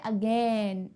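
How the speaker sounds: अगेन said slowly with the mouth opened wide; अगेन drawn out to show the ending sound. Shown as a demonstration. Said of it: "मुंह से सुनो".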